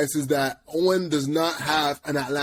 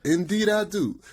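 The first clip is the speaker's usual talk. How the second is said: T.I; 7 semitones higher than usual. Retold or imitated. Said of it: "he talk like that".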